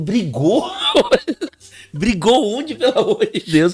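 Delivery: retold incredulity. Man retells answering his girlfriend's accusation, incredulous. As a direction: replay your disbelief at being accused.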